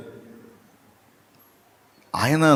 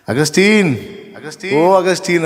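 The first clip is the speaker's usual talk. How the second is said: a mild retold call after him; ex-lover calling after Augustine; 4 semitones higher than usual. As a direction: call his name down the road. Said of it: "అని కేకేసిందట".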